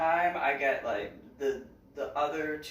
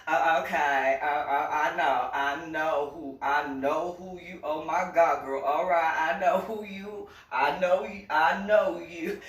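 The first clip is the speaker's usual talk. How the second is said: louder, excited cashier imitation; mock thrilled cashier, getting louder; excited recognition; 5 dB louder than usual. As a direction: play her delighted to place you. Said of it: "And she goes".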